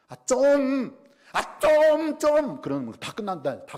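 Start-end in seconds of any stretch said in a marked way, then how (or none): 0.1-2.6 loud, high, drawn-out Gyeongsang nagging; stretched, high Gyeongsang-style outburst; Gyeongsang dialect exasperation. Shown as a demonstration. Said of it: "경상도 말로 한마디면 끝난다면서요".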